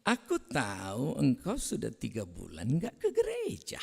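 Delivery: sing-song sweet reproach, pitch swooping up at the end; mock-gentle rebuke. Preacher acting a gentle telling-off of a church absentee, hammed-up softness. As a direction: scold with exaggerated gentleness, stretching the words. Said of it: "Menegur orang pun dengan lemah lembut".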